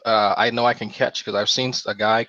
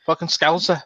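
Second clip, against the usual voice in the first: mock outrage; 8 semitones higher than usual. Mocking outrage at Sty.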